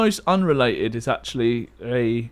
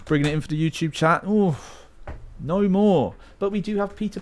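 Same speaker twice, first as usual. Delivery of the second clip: fast commentator; 5 semitones higher than usual. Pretend. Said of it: "a StarCraft commentator".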